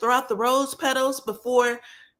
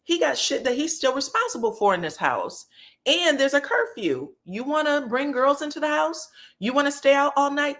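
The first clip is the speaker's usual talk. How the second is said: high, sassy mock of Kimmy; high, indignant clapback; 6 semitones higher than usual. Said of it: "And Kimmy said".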